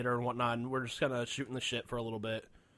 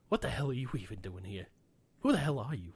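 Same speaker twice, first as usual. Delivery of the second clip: Rickles; 3 semitones lower than usual. Retold or imitated. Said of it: "He's just like".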